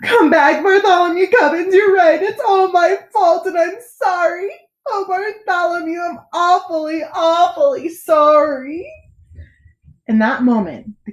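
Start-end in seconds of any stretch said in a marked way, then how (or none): 0.0-8.9 much higher, tearful king begging forgiveness; a sobbing old king, voice cracked high; crying. A narrator's reading. Old king crying as he calls the boy back: high, tearful apology. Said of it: "The old king was crying".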